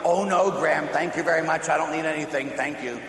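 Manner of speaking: lightly acted, courteous turning-down; polite mock refusal. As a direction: play the game of modestly declining. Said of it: "I'm playing this game with my grandmother".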